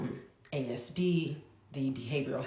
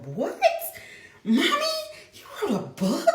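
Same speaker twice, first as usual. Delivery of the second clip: put-on high, louder excited little boy; excited son; 7 dB louder, faster than usual. Mother imitating her son amazed at her book, high excited child voice. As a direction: gasp it out like a thrilled kid. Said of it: "He was so super excited".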